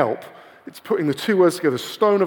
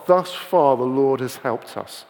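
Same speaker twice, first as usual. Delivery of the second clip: slow solemn phrase; 3 semitones lower, slower than usual. Shown as a demonstration. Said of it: "is the little phrase he uses".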